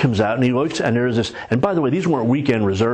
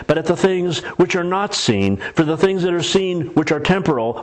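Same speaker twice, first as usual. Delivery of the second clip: solemn scripture reading. Acted. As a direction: read the verse like holy words. Reads scripture aloud.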